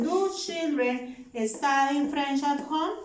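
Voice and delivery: slow model question with a rise; slow dictation. Shown as a demonstration. Teacher modelling a yes-no question for students, slowly. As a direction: read each word out slowly. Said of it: "Con do".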